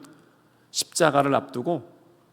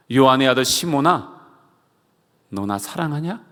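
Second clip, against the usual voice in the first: tender appeal. Retold or imitated. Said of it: "예수님의 부르심이었습니다".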